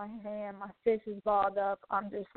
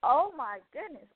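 higher, stunned retold reaction; super shocked; 4 semitones higher than usual. Recalling a stranger offering to pay her bill, super shocked. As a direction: relive the shock in a raised voice. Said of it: "I'm super shocked".

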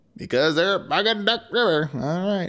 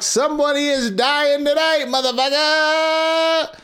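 triumphant shout; 8 semitones higher than usual. Acted. Gretel shouts after locking witch.

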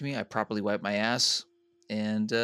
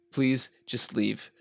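slow plea; much slower than usual. Retold or imitated. Pleading with owner to go.

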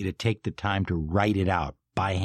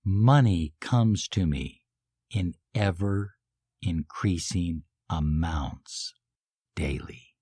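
felt affirmation; slower than usual. Shown as a demonstration. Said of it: "Emotionalize it".

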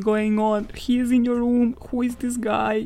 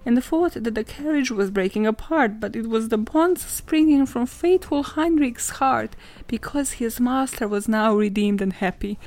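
reading aloud. Shown as a demonstration. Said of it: "Let me read this to you".

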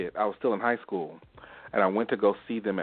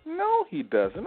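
very high, drawn-out mock denial; slow, high-pitched retold protest; imitated disbelieving mother; much slower than usual. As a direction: imitate mom refusing to believe it.

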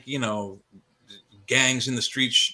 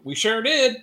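put-on much higher and a bit louder, coy girlish reply; mock girly voice; 10 semitones higher, 4 dB louder than usual. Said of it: "kinda like a girl throw my hip at him and go".

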